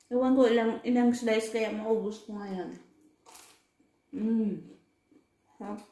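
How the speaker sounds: chewing while talking; talking between bites; mouth full of pizza. Real, not acted. Seen 2: Bites and chews pizza slice while talking; pizza on table throughout.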